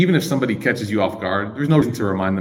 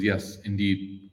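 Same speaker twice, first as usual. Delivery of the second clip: quiet, slow indeed; hushed slow reply; soft slow yes; 8 dB quieter, much slower than usual. Retold or imitated. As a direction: answer gently and patiently.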